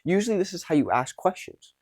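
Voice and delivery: QUESTIONS lifted at the end like a question; high ending pitch. Shown as a demonstration. Coach showing how questions are asked, high ending pitch on QUESTIONS. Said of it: "end up in a high ending pitch".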